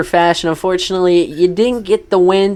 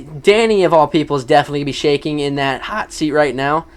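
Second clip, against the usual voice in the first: a sudden crack in the voice; 3 semitones lower than usual. Real, not acted. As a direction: voice cracking mid-sentence. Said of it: "Sorry for the voice crack".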